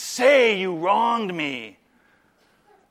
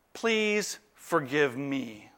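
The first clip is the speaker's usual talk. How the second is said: asking forgiveness; 4 semitones lower, 7 dB quieter, much slower than usual. Acted. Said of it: "When you have to say".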